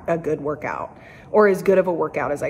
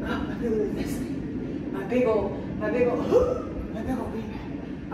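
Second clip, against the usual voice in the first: laughing; 3 semitones higher, 5 dB quieter than usual. Real, not acted. Struggling to get down, laughing.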